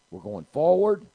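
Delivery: loud shout rising high at the end; rousing proclamation. Real, not acted. Preacher telling church they're going forward, rousing shout. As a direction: belt it out to rally the congregation.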